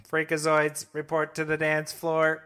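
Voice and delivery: slow robotic monotone; emotionless robot. Pretend. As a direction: drag it out like a machine. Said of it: "I am a robot".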